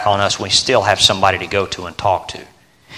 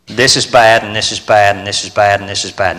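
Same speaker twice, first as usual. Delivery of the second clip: mock moping; 2 semitones lower than usual. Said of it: "walk around constantly down".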